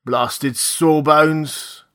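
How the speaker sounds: put-on very slow, dragged-out drunken insult; sleepy drunken sneer. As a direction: drawl the insult like a sodden captain. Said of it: "after looking sleepily".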